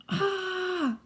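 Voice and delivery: high, drawn-out cry; yell. A narrator's reading. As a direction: cry out as if struck. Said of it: "Medusa yelled".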